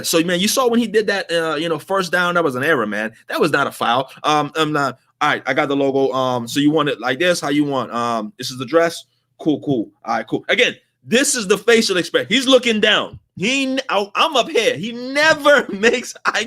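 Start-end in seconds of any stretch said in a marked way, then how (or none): 0.0-10.4 distracted clerk. Clerk split between phone and customer.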